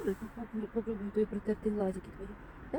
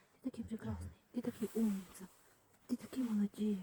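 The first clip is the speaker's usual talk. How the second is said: soft, tender praise; talking to a dog; 5 dB quieter than usual. Real, not acted. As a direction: coo gently to a scared dog.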